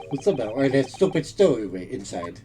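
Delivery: put-on Russian accent. Plays Russian sailor.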